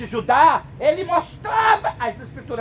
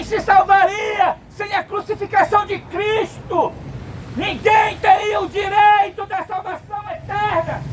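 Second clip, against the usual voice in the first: preaching at full force; 4 semitones higher than usual. Real, not acted. Preacher warning the congregation about the beast, fervent shouting. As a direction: build the warning to a fervent climax. Sermon rising to a climax.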